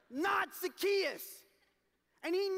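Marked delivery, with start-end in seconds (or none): 0.1-1.2 slow, high, loud and emphatic; a preacher's pointed rejection; stressed refrain. Acted. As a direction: lean hard on each word, shutting him out. Excluded sinner, repeated refrain.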